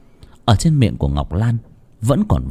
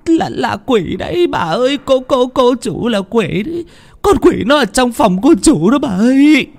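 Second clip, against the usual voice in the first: much higher, stuttering in fright; trembling stammer; 4 dB louder than usual. A narrator's reading. Cook stammering to the grandmother, much higher and scared. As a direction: stammer out the horror. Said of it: "run bần bật ... mà lắp bắp".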